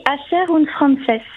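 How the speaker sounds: Spanish phrase in a lightly done Spanish accent. Shown as a demonstration. Columnist quotes Spanish slang on the radio show, light Spanish accent. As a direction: try a Spanish accent on the phrase, not quite native. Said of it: "excusez pour mon accent espagnol".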